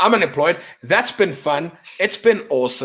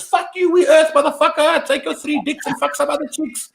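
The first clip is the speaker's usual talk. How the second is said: mock defiant Earth yell; 10 semitones higher than usual. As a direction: shout it like the whole planet taunting invaders. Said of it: "the whole globe goes".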